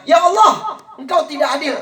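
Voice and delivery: put-on a child shouting a complaint up to heaven; child cries out. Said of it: "Anaknya teriak".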